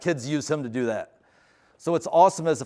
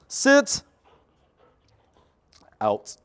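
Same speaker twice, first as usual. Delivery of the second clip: high, loud dog command; sharp command; 6 semitones higher, 6 dB louder than usual. Real, not acted. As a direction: snap the command to stop him.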